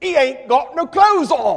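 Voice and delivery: put-on perfect Cockney accent, loud and high-pitched. In a sermon, retelling what a young child said, perfect cockney accent. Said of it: "in perfect Cockney accent".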